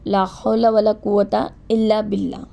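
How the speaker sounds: slow, each syllable of لا حول ولا قوت الا باللہ recited deliberately; unhurried devotional recitation for learners; slow careful recitation. Shown as a demonstration. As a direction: recite it slowly and clearly, as a model to copy. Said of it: "بالکل آرام سے پڑھنا ہے".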